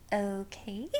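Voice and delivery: soft, unsure okay with a rising end; a small, hesitant "Okay?"; awkward quiet okay. Retold or imitated. Awkward reply to the waitress.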